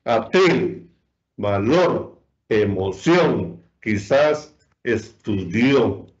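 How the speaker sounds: atril, valor, emoción, quizás, estudió spaced, weighted at the end; stress on final syllables. Shown as a demonstration. Teacher lists examples, atril to estudió stressed on last syllable. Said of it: "la sílaba tónica".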